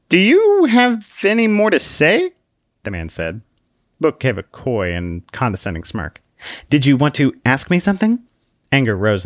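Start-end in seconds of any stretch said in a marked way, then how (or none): 0.1-2.3 slow, pointed and louder; impatient man. Acted. The man presses Book, slow and impatient. 6.7-8.2 a touch of a smirk in the voice; coy condescending. Acted. Book teases the man with a coy condescending smirk.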